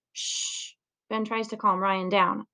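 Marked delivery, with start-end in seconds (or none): 0.1-0.7 soft hushing sound; quiet him down fast. Acted. Ben hushing his noisy classmate, soft shush.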